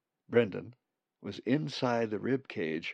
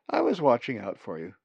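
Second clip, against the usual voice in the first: louder, cheerful reassurance; 2 semitones higher, 8 dB louder than usual. A narrator's reading. Perry answers Marg's scolding, cheerful. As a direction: breezily wave away the scolding. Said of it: "he said cheerfully".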